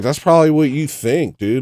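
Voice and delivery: indignant loud inner reply; heated inner retort. Retold or imitated. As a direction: fire back in your head. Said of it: "in my head".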